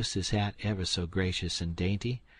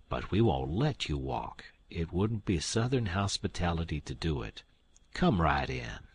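lower, firm but kindly host; old gentleman insisting; 3 semitones lower than usual. Acted.

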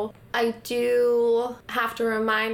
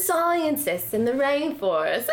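Australian accent attempt; 2 semitones higher than usual. Shown as a demonstration.

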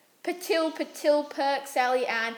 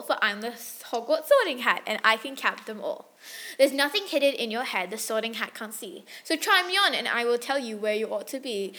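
reciting verse softly, in a singsong rhythm; poem recital; 4 dB quieter than usual. Acted. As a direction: recite the Hat's song like a poem. Recites the Sorting Hat song.

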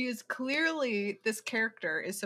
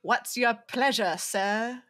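pleasure dealer line; 4 dB louder, slower than usual. Retold or imitated. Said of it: "the famous line of ... pleasure dealer".

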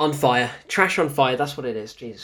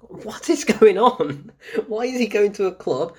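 incredulous outburst; 5 semitones higher, 4 dB louder than usual. Real, not acted. Reviewer baffled by Venom going clubbing, incredulous outburst. Baffled rant about the film's plot.

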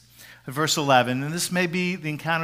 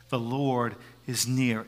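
slow whisper, a little fuller; soft whisper; 6 semitones lower, 6 dB quieter, slower than usual. Shown as a demonstration. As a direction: repeat it gently, still whispering. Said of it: "a whisper reminds us".

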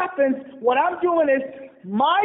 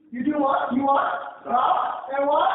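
prompting congregation. Real, not acted. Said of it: "calling for response".

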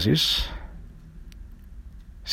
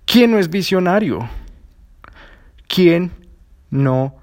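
emphatic rhetorical; 9 semitones higher than usual. Acted. Rhetorical pitch.

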